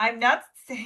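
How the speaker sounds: laughing, cracking up mid-sentence. Trying to read a quote aloud without laughing: laughing while talking. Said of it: "no, I can't".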